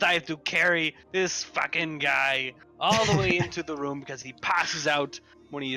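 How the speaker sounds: ordinary delivery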